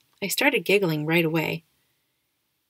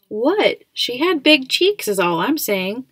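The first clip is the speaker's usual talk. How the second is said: higher, louder, defensive protest; mock-innocent protest; 5 semitones higher, 6 dB louder, slower than usual. A narrator's reading. Dad defending his cheeky joke to mom, mock-innocent. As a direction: protest your innocence, voice raised.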